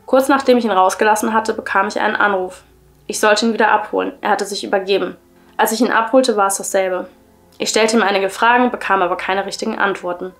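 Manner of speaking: measured, even story-reading voice; story narration. A narrator's reading. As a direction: read the creepy tale aloud, clearly and evenly. Reads a creepy story aloud.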